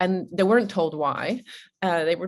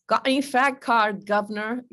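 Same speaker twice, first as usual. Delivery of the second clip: put-on kid yelling; 5 semitones higher than usual. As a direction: call it out like a cheeky London kid. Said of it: "And the kid yelled".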